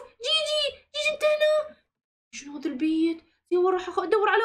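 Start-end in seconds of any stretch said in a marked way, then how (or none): 0.0-1.8 calling out a name. Pretend. Searching house for brother.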